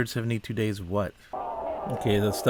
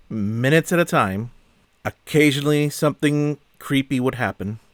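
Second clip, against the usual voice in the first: mad; 3 semitones higher, 4 dB louder than usual. Real, not acted. Reviewer ranting about wasted hundred minutes, mad. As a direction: complain with pointed stresses, dragging out the grievance. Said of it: "I'm mad about this".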